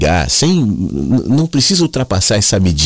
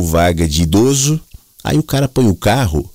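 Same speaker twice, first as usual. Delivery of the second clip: ordinary talk, nothing marked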